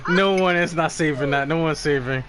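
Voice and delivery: eating while talking; mouth full. Real, not acted. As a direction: talk through a mouthful. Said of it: "Don't make me laugh when I'm eating".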